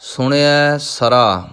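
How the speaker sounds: ਸਰਾ with a plain s, no sh; correct pronunciation. Shown as a demonstration. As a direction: say ਸਰਾ with ਸ, not ਸ਼ਰਾ. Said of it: "ਸਰਾ ਨਹੀਂ ਕਹਿਣਾ". (ਸਰਾ ਬਿਨਾਂ ਬਿੰਦੀ)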